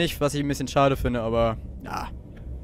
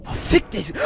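scared; 7 semitones higher, slower than usual. Real, not acted. Scare in horror game.

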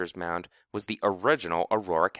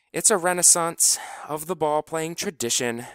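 calling out higher across the field; called out; 8 semitones higher than usual. A narrator's reading. Finesse calls out to everyone on the field. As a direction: project it to the whole field. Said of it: "called out to everyone".

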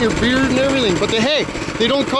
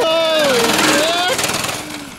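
long, stretched-out holy shit, slow and high; watching a buddy's stunt crash, stretched-out amazement; drawn-out amazement; 6 semitones higher, much slower than usual. Real, not acted. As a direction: drag it out in disbelief. Buddy's stunt wipeout reaction.

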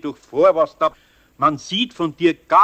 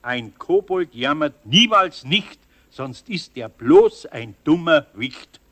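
reciting a rhyme; slower than usual. Acted. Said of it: "soll ich dir einmal ein Koboldsgesetz sagen".

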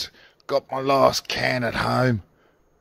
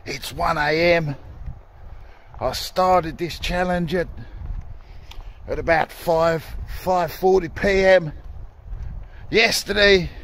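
stupid voice; 6 semitones higher than usual. Acted. Talking to camera at one a.m. in a stupid high voice. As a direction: pitch it up into a daft silly voice. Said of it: "Fucking stupid voice".

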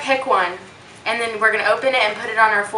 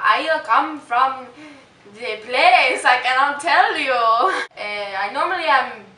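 mock Swedish accent; slower than usual. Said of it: "It starts with an S".

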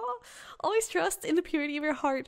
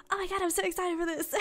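higher, laughing squeal of excitement; giddy inner child; 7 semitones higher than usual. Pretend. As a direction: play a thrilled kid bursting with laughter.

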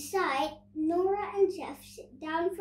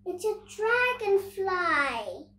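amazed discovery; 6 semitones higher, 6 dB louder than usual. A narrator's reading. Nora amazed as dragonfly whizzes past.

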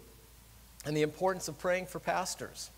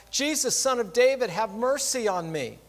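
loud plea, higher on Jesus; crying out; 4 semitones higher, 4 dB louder than usual. Acted. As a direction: call out to Jesus for mercy. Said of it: "he began to cry out".

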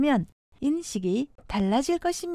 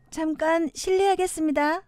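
polite standard Korean; plain standard Korean announcement; 표준어. Shown as a demonstration. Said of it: "표준어". (정중한 표준어 말투)

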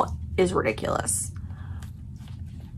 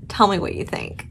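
soft unvoiced whisper; 6 dB quieter, faster than usual. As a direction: breathe it as a secret. Asks viewers twice, differently.

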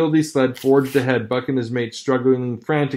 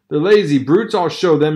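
angry; 5 dB louder than usual. Acted. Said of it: "he cried".

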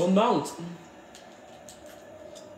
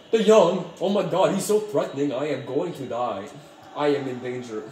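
mock anxious. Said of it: "like he was anxious about something".

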